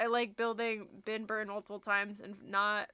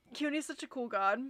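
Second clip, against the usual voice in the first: whispering. Real, not acted. Unvoiced aside while streaming.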